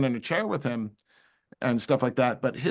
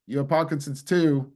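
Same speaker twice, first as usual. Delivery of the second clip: fake accent of a rock singer. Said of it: "I'm sorry about my fake accent".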